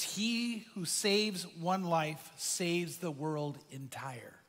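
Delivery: soft, slow and hushed, dropping away at the end; hushed quote. Retold or imitated. Preacher quietly voices the survivor thanking Schindler, hushed and slow. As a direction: let the survivor's words settle gently.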